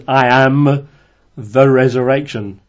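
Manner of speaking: "I am" loud and firm, then a pause before "the resurrection"; emphatic declaration. Shown as a demonstration. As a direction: hammer "I am", then set "the resurrection" apart. Stresses key words against wrong ideas.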